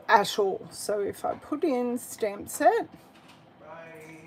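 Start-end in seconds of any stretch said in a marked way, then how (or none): 3.6-4.2 soft breathy whisper; whispered bye. Real, not acted. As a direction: whisper it under your breath. Whispered goodbye to someone leaving.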